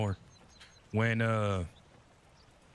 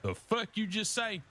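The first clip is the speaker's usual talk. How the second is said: indignant; 9 semitones higher, slower than usual. Retold or imitated. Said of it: "they'd be like".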